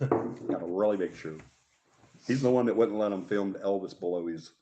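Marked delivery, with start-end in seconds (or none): 0.0-1.4 slow, lightly mimicked TV host; Ed Sullivan. Showing co-host how he sounded, slow mock impression. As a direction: draw out "shoe" for "show". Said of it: "sounded like he was talking about he had a big shoe".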